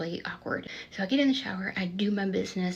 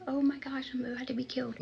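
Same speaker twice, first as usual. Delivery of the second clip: higher, hushed panicked whisper; scared whisper; 5 semitones higher than usual. Retold or imitated. New inmate in robe fearing for her life, whispered. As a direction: whisper it as if you're about to die. Hiding, terrified of the angry inmate.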